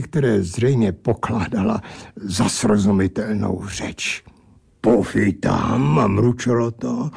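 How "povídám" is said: low, slow grumbling creature; lightly voiced drunken angel; odd angel voice. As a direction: grumble it like a tipsy oddball. Angel character speaks.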